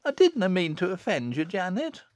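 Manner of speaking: high, pleading, tearful; sobbing. A narrator's reading. Susan apologising to little Jennet, sobbing. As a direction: apologise through mild sobs. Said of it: "sobbed Susan".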